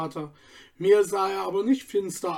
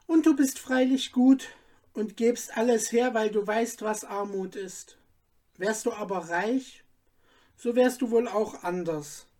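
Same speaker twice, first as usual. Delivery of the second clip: put-on a lightly raised girl's voice, wistful and fading at the end; girl Sabine dreaming; 3 semitones higher than usual. Sabine tells Stefan her wish, lightly voiced dreamy girl. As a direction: voice a young girl daydreaming of castles, a light touch.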